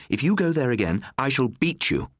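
rising threat. A narrator's reading. Mother repeats threat to son.

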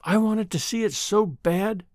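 slow, a touch of tremble; mildly tremulous old woman. Acted. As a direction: hold back tears, slowly. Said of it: "continued the woman, tremulously".

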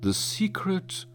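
whispered secret. A narrator's reading. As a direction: lean in and whisper it. Revealing a secret up close.

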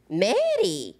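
"Mary" said as "Madi"; Korean pronunciation. Retold or imitated. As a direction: say "Mary" with a flapped d like mom. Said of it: "she's like".

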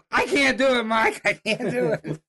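high, slowing, pleading retold refusal; hammed-up frightened whine; scared hunter. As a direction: play the hunter too scared to go on.

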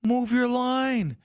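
high, slow mocking whine; whiny bettor. Mocking a crying bettor at the window, high whiny plea. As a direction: mimic a crybaby demanding a line move.

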